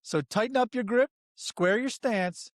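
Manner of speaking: step-right-up carnival pitch; snake oil seller. Acted. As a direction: sell the guest like a fairground huckster. Hypes the guest intro like a barker.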